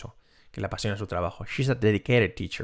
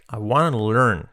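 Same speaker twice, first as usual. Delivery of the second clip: said fast. Shown as a demonstration. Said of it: "Dicho rápido".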